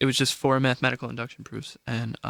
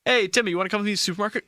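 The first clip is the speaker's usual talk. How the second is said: put-on awkward teenager; 6 semitones higher, much faster than usual. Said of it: "an awkward seventeen-year-old just be like".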